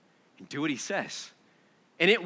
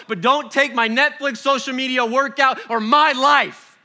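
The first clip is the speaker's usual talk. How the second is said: whiny mock plea; 7 semitones higher, 6 dB louder than usual. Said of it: "we go".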